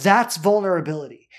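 ordinary talk

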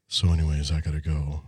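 A classic crooner moment. Retold or imitated. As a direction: drop into a low crooner's purr. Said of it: "next level", like a famous singer.

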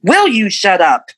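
mild mock snap at a child; exasperated retold telling-off, pitch jumping on the words; retold angry outburst. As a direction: imitate an aunt letting loose, only half-heartedly. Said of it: "let loose on me".

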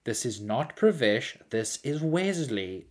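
slow, deliberate, fed-up; slow annoyed correction. Retold or imitated. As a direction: spell it out patiently annoyed. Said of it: "he'd be like".

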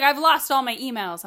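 high, loud mock-panic; panicky mom. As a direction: play the helpless mom.

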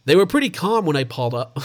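put-on a clumsy first try at an American accent on "They were pretty calm"; bad American accent. Australian host botches a neighbour's quote in a mock American accent. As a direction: fumble a put-on American accent, half-hearted. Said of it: "That's a bad accent".

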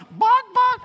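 high, loud mock dog bark; playful imitated bark.

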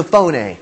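"phone" said in two syllables, FOH-nay; Greek pronunciation of phone. Shown as a demonstration. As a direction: add an "ay" ending to "phone". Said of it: "it's pronounced phone".

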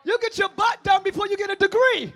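loud high preaching jab; shouted jab. Real, not acted. Preacher shouting at the women in the church. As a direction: fire it at the crowd.

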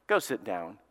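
low, quiet stern dismissal; mad judge. Retold or imitated. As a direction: imitate an annoyed judge, dropped low and soft. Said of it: "I just made him mad".

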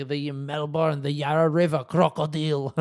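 teasing foreign voice; a hint of the Greek agent joking; mock customs agent. Agent quoted, mocking Australian.

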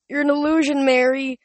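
high, loud, panicked cry; frantic. A narrator's reading. Chris screaming at Clarice he thinks is Mary, panicked. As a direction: scream at a vision that isn't there.

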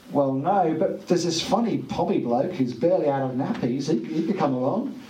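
mildly hammed-up sales pitch for a stand-in; apologetic phone reply. Phone answerer offering the junior substitute for Chapo, lightly hammed-up apology.

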